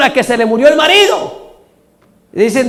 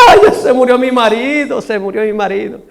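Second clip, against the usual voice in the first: mock widow's weeping. Widow puts on grief for the mourners, mock weeping. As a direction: put on a widow's cry, then let it sag. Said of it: "Y la señora llorando".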